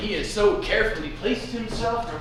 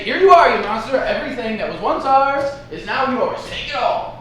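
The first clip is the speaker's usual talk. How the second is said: mock surrender; 5 dB louder than usual. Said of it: "Simply say".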